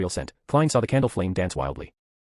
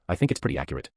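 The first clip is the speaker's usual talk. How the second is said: calm; 5 semitones lower than usual. A narrator's reading. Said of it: "she calmly replied".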